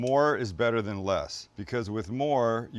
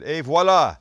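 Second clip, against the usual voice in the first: grand reveal; 3 semitones higher, 5 dB louder than usual. Real, not acted. Presenting the finished dish.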